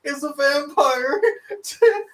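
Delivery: high, laughing through the question; can barely get the words out for laughing; laughing hard. Real, not acted. Director laughing at scene.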